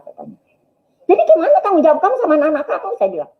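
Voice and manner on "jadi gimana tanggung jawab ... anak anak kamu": high, rapid protest; fast, upset demand, acted out; retold agitated challenge. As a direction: confront him in a rush of raised pitch. Wife challenges her dying husband.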